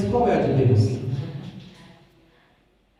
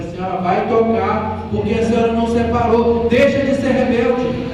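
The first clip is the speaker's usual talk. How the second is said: louder, higher firm rebuke; firm scolding; 4 semitones higher, 3 dB louder than usual. Retold or imitated. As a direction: scold her like a stern pastor. Pastor scolding member on the phone.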